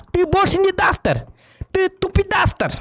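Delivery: high teasing sneer; high mocking taunt. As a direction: jeer it up high.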